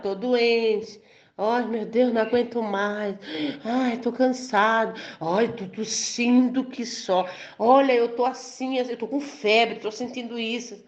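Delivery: mock sick complaining, drawn out; lamúria de doente. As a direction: act out a weary sufferer dragging the moans. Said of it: "usar a palavra do diabo". (lamentação encenada de doente, arrastada)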